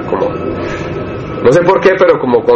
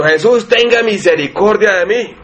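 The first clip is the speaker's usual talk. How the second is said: slow, pleading cry for mercy, a little higher; súplica desesperada; 5 semitones higher than usual. Retold or imitated. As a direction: beg slowly like a desperate blind man calling out. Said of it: "con desespero a llamar a Jesucristo". (súplica lenta y desesperada)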